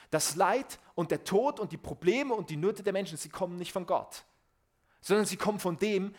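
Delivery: höher und lauter predigen, mit Nachdruck; forceful preaching. Acted. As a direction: proclaim it to the congregation. Preaching with rising intensity. (eindringliche, laute Predigt)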